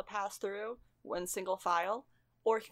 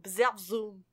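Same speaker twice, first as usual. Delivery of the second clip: magic zap noise; 5 dB louder than usual. Shown as a demonstration. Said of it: "Whatever the bard sounds are".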